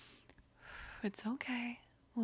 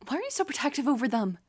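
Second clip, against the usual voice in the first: much louder, fast angry rant; furious outburst; 4 semitones higher, 9 dB louder than usual. Acted. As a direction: let the anger burst out, fast. Furious at the friend's abusers.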